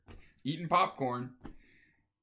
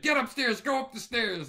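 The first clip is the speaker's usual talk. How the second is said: much higher, louder frantic command; urgent shout; 10 semitones higher, 4 dB louder than usual. Retold or imitated. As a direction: hustle the guy upstairs in a panic. Wife hurries date upstairs.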